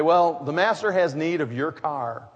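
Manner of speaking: calm, even delivery of a bold request. Retold or imitated. Disciple calmly tells the stunned car owner, unbothered calm. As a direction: say it calmly, as if it's nothing unusual. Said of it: "very calmly say".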